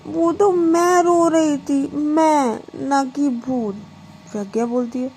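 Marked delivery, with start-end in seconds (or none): 0.1-3.7 tearful. Acted. Diksha explains she was crying.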